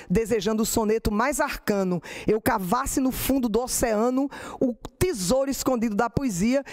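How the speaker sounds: steady, mournful cordel cadence; poem recital. Acted. Poet reciting her pandemic martelo alagoano, steady recital. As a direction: recite the martelo in a tearful rhythm.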